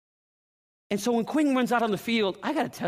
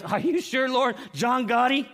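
incredulous; 5 semitones higher, slower than usual. Acted. Ananias balks at God's order.

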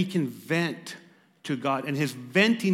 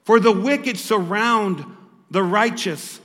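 slow, loud, higher, drawn-out complaint; slow loud lament; 5 semitones higher, 8 dB louder, slower than usual. Acted. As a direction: stretch out each word in grief. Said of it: "he said".

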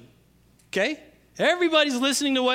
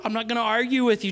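ordinary delivery

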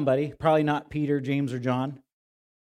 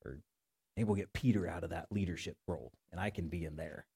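softer, smug private musing; scheming inner voice; 7 semitones lower, 5 dB quieter than usual. Acted. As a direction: plot your promotion under your breath. Disciples' imagined private thoughts.

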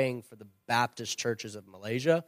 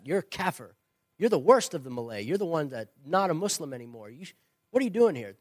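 put-on indignant old man; 4 semitones higher, faster than usual. Elder confronts the new convert at church, higher and indignant. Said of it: "he says".

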